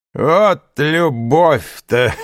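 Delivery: put-on high, loud, slow drunken bellow; drunken shout. A narrator's reading. Tipsy Caderousse hollers mockingly at lovesick Fernand, high and drawn out. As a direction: drag the words out like a tipsy man at the table. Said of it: "закричал Кадрус пьяным голосом".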